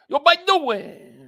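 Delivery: high, loud greeting with slurred words; rushed intro catchphrase. Shown as a demonstration. Streamer showing the intro just like that, rushed catchphrase. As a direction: blurt it as one stretched-out burst. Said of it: "yeah, just like that".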